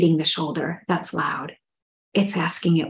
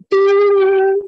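high breathy exclaim; 13 semitones higher, 5 dB louder than usual. Pretend. Centering exercise, acted.

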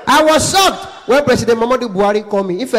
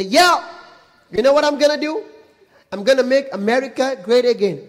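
raised-pitch campaign-speech imitation; Obama on campaign; 5 semitones higher than usual. Candidate promising to make America great, hammed-up campaign voice. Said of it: "See Obama. If Obama dey campaign".

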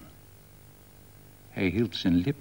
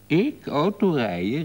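higher-pitched exclaimed question; calling out; 6 semitones higher, 3 dB louder than usual. A narrator's reading. Man to woman offering him the wheel, calling out. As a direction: call it out in disbelief. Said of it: "riep hij".

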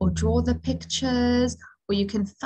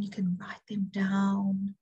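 whispered aside; 2 semitones lower, 6 dB quieter than usual. Real, not acted. Aside to children.

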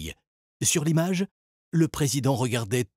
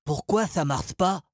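panicked; 6 semitones higher than usual. A narrator's reading. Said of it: "paniqua Salim".

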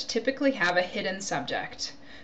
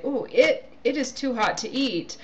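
ooh, mild surprise; 5 semitones higher than usual. Shown as a demonstration. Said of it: "if I'm pointing to my bowl".

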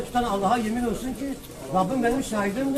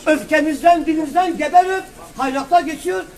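raised, forceful, slowed-down argument; heated preaching; 3 semitones higher, 4 dB louder than usual. Real, not acted. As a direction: preach it hard and loud.

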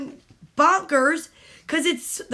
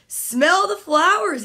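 dreamy voice; 4 semitones higher, 4 dB louder than usual. A narrator's reading. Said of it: "he read it in a dreamy voice".

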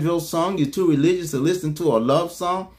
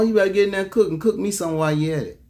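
mock demanding husband; 3 semitones higher, much faster than usual.

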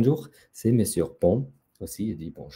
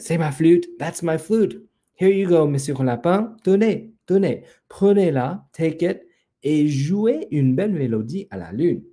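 high-pitched, animated peacock speech; eager offering; 5 semitones higher than usual. Acted. The peacock gives Monsieur Lapin his flute to play, eager. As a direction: hand it over with delight.

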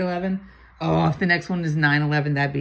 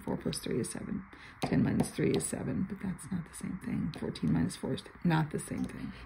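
muttering; 9 dB quieter than usual. Real, not acted. Muttering to herself.

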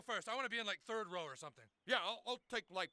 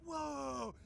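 mock amazement. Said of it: "people were all like".

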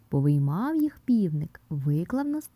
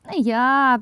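lightly squeaked refusal, raised pitch; squeaking mouse; 5 semitones higher, 5 dB louder than usual. A narrator's reading. Mouse Krut refusing to knead the dough, lightly squeaked. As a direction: give a hint of a squeaky mouse. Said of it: "пищить Круть".

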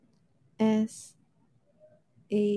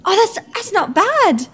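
put-on higher, playful British accent; 8 semitones higher than usual. Judging a friend's attempt in an accent battle, playful British accent. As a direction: put on a matey British lilt. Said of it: "do a British accent right now".

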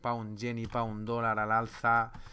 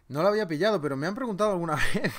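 laughing; 5 semitones higher, 6 dB louder, much faster than usual. Real, not acted. Laughing at chat joke.

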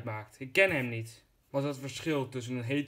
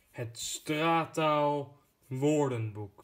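slow, grand title voice; dramatic title announcement; much slower than usual. Acted. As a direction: announce it slowly like a trailer. (dramatisch aangekondigd)

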